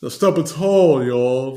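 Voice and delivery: lightly voiced, stretched stepping tall y'all; imitating a rapper. Podcaster imitating a rapper's stretched delivery. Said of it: "when he pronounce and enunciates certain words".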